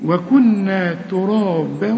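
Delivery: وكنا ترابا drawn out, recited; slow chanted recitation; slow Quran recitation. Shown as a demonstration. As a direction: recite slowly as in tajweed. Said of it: "وعند الوصل هنقول إيه".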